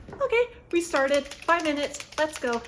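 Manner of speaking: upbeat, energetic kickoff; pumped to start the timer; excited. Real, not acted. Starting a five-minute timer.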